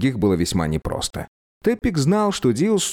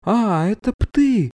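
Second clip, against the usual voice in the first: coldly; 13 semitones higher, slower than usual. A narrator's reading. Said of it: "произнесла она довольно холодно".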